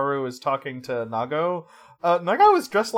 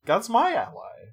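higher, smug little boast; smug mock boast; 7 semitones higher than usual. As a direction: toss it off like a cocky hero. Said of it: "he says".

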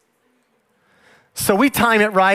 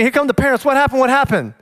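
high, raised panicked asking; alarmed parents; 5 semitones higher than usual. Retold or imitated.

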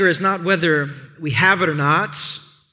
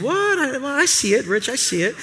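mock audience reply; 5 semitones higher than usual. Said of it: "some of you are saying".

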